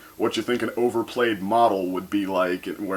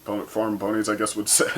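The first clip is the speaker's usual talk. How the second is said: ordinary talk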